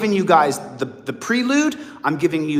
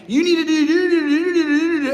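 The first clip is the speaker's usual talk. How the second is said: higher pitched imitated nagging; mock yelling; 9 semitones higher than usual. Prosecutors at the pretrial hearing, mock yelling. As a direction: parrot the prosecutors badgering you. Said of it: "they're yelling at you".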